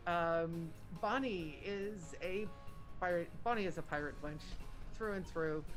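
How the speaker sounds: speaking through a face mask; muffled, mask over the mouth. Real, not acted. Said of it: "I apologize for the muffled sound and the mask".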